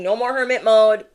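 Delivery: loud firm command; spirit's command. Acted. Spirit orders viewer out of hiding, loud and firm. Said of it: "Spirit is saying".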